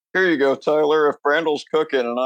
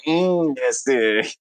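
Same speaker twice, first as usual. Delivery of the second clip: put-on Spanish accent; slower than usual. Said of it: "going into a Spanish accent".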